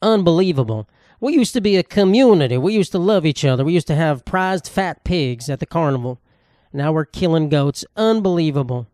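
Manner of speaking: outraged small-town parent. Retold or imitated. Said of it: "They go".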